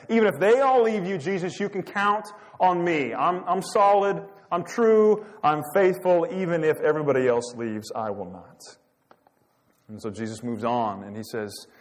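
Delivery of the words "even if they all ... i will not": imitating an overconfident disciple, raised and loud; insistent, boastful assurance; self-promoting vow. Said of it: "Peter self-promotes".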